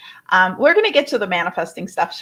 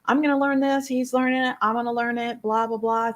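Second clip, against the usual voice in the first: higher, eager self-talk; eager resolve; 4 semitones higher than usual. Retold or imitated. Recalling wanting to copy her mentor, higher and eager. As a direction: rattle it off like a keen student. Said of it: "I was like".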